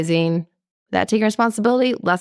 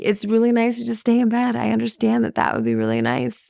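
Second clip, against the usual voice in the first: soothing, understanding parent. Shown as a demonstration. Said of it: "To be".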